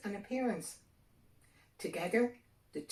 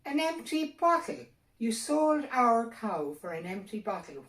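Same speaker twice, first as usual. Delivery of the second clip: higher, louder outraged cry; outraged wife; 6 semitones higher, 8 dB louder than usual. A narrator's reading. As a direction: scold him in shocked fury.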